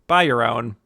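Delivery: understated deadpan quote of a punchline. Retold or imitated. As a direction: deliver it dryly, lightly imitating her. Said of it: "totally deadpan just goes".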